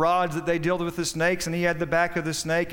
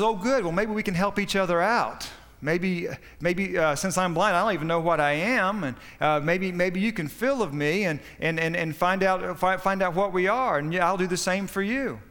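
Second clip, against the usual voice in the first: eager rabbit; 3 semitones higher than usual. Acted. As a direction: play the hopeful blind bunny offering help. Rabbit voiced in a fable.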